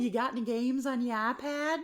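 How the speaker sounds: lightly voiced pestering kid. Ghost as a kid asking for games, lightly voiced child. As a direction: ask it like a nosy child. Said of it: "it's like a kid".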